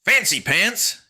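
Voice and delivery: startled call. Acted. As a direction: shout after him. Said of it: "Jackson called after him".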